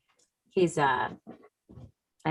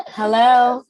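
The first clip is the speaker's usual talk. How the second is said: high, loud playful hello; calling out; 8 semitones higher, 5 dB louder than usual. Real, not acted. Mother calls playfully to her son interrupting the interview, high and loud. Kid coming into the room.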